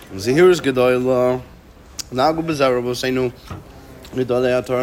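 talking while crunching a lozenge. Real, not acted. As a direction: speak around a hard candy being crunched. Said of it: "I'm sorry that I'm crunching".

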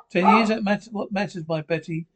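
disbelief. Acted. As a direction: throw the number back, astonished. Echoes friend in disbelief.

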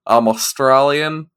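loud, hammed-up imitation of schoolmate's Australian accent; bad Australian accent. Friend imitating girl from school, mock Australian accent. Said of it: "flawless imitation of her, uh, Australian accent".

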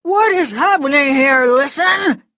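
high, loud lordly demand; furious demand. Acted. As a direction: bark it at the top of his lungs. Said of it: "he demanded".

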